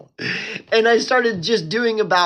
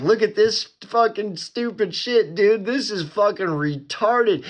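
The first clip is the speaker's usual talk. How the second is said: higher, exasperated ranting in his video voice; mock ranting; 5 semitones higher than usual. Ranting at dumb internet content to his viewers, exasperated. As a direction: act out the old outraged rant. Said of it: "every video I'm pointing out the elephant in the room is like".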